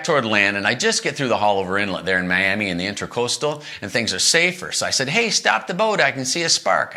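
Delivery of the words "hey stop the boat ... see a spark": faked alarm. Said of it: "I put on a pretty good acting job".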